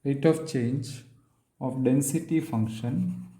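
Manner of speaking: very long pauses between short phrases; slow, piecemeal statement. Real, not acted. Lecturer stating a theorem to students, slowly and piece by piece. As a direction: dictate it slowly, a few words at a time.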